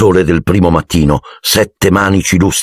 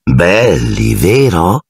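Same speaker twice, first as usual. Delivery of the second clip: suave; much slower than usual. Acted. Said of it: "con voce suadente".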